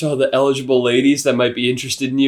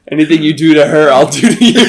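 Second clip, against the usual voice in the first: overprotective dad; 4 dB louder than usual. Pretend. Joking dad warning about dog.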